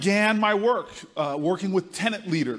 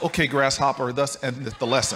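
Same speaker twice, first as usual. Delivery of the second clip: lower, wry mock kung fu master; mock sage; 5 semitones lower than usual. Booker's inner voice sums up the lesson, lower and wry. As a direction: intone it like a movie mentor.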